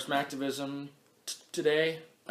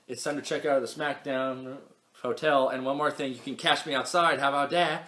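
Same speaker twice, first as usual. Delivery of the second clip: hyped sign-off; 4 semitones higher, 5 dB louder than usual. Pretend. Announcer-style sign-off countdown.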